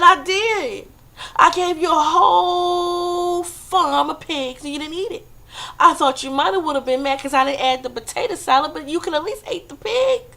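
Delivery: God shouting in disbelief at the wasted pigs; God exasperated. Retold or imitated. God answering the dead man.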